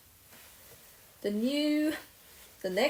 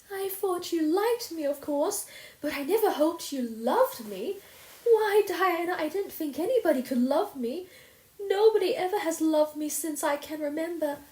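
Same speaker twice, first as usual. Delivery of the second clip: overwhelmed; 10 semitones higher, 4 dB louder than usual. A narrator's reading. Anne overwhelmed by being loved.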